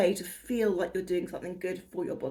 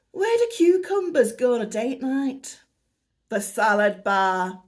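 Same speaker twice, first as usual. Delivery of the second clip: put-on Northern accent; 3 semitones higher, 6 dB louder than usual. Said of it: "I don't know why I went into Northern".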